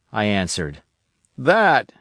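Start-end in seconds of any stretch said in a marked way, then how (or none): 1.4-1.9 Ben Gunn crying out. Acted. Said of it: "he cried".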